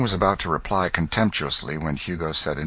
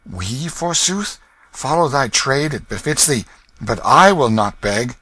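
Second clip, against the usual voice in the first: put-on high, haughty boy king refusing; proud young king; 7 semitones higher, 5 dB louder than usual. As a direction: lift the chin and refuse.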